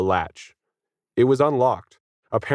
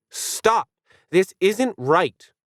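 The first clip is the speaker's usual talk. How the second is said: much higher, slow howling cry; howled; 10 semitones higher, much slower than usual. A narrator's reading. Dog howling at the fighting alien, howling. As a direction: stretch it into a howl. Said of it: "Planet howled".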